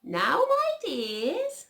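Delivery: high, drawn-out motherly call; mother rabbit. A narrator's reading. Mrs Rabbit addressing her children, high slow motherly voice. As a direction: call the little ones to attention, slow and high. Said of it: "said old Missus Rabbit one morning".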